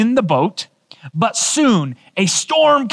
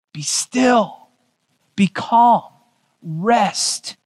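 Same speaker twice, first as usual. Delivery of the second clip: calm command; much slower than usual. Retold or imitated. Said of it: "he rebuked the wind".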